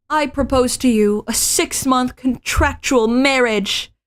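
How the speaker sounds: lightly voiced heroine, deliberate; anime heroine voice. Female lead proposing.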